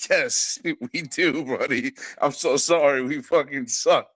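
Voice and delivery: retold apology broken by chuckles; rueful laughing. Father retelling his reply to his son, rueful laughing. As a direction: laugh through the admission.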